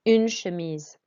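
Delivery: "Une" with a clear French u, "chemise" with sh. Shown as a demonstration. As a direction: round the lips for "Une". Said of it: "One more time".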